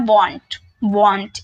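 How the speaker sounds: "want" spoken as one syllable wont, rhyming with want, slow; won't pronunciation. Shown as a demonstration. Teacher drills the pronunciation of won't for students. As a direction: give the contraction "want" clearly, one round syllable. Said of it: "इसकी pronunciation लिख देती हूँ".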